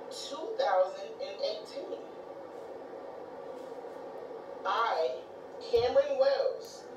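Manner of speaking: deliberate, emphatic personal vow; slow pledge with weighty pauses; solemn vow. Real, not acted. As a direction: declare it firmly, leaning on the key words. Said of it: "this is my vow".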